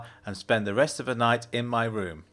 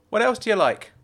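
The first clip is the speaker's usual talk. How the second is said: Jenna's voice; 11 semitones higher, 5 dB louder, faster than usual. A narrator's reading. Jenna's voice in dialogue.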